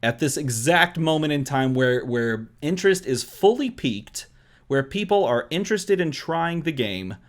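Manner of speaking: eager, rising pitch rant; overexcited babbling. Real, not acted. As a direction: pile on the excitement. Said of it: "I hope you see I'm super excited about this".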